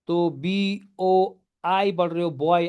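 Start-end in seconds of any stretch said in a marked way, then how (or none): 2.3-2.7 "बॉय" gliding o to i; pronunciation demo. Shown as a demonstration. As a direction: model "बॉय" again for the class. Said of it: "ऐसे पढ़ रहे हो इसको". ("बॉय" का diphthong उच्चारण)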